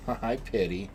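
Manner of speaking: soft, quiet coo. Real, not acted. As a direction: murmur a hello to the pet. Cooing at dog.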